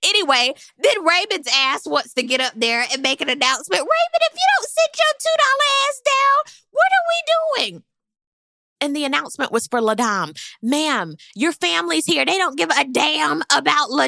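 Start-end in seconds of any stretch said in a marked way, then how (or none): 3.8-7.8 much higher, exasperated scolding; mock scolding. To Raymond about his announcement, mock scolding. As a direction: tell him off like a fed-up auntie.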